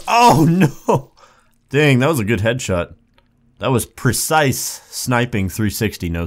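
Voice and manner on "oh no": loud, high cry with a laugh in it; alarmed cry. Real, not acted. Player hit mid-sentence in game, alarmed cry.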